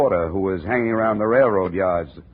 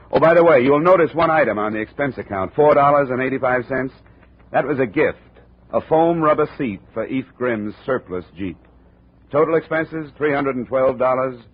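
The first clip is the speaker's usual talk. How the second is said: cheerful sign-off; 5 semitones higher, 4 dB louder than usual. Acted.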